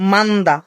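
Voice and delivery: মান্দা as joined man-da; pronunciation demo. Shown as a demonstration. Teacher showing the silent hiot, demonstrating মান্দা as man-da. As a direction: say মান্দা with n running straight into da, no h. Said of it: "উচ্চারণ কিসে?".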